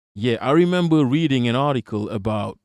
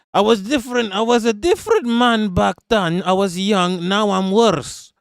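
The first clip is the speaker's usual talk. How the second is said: mock sleazy celebrity excuse; 7 semitones higher than usual. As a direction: sneer out his fake apology in a pitched-up voice. Mocking Russell Brand's excuse.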